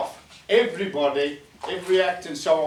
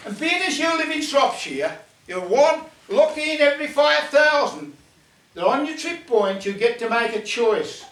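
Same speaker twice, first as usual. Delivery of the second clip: higher goblin, raised and eager; 7 semitones higher, 4 dB louder than usual. Acted. Goblin offering Ken the choice, higher and brighter. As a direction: sell the offer like a chirpy goblin.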